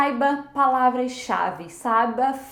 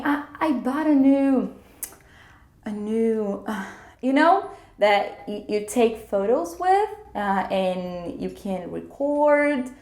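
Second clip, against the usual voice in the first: slow, halting search for a word; explicando sem saber a palavra; much slower than usual. Shown as a demonstration. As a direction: hesitate and stall, describing the missing word bit by bit. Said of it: "Aí você fala assim". (hesitante, procurando a palavra devagar)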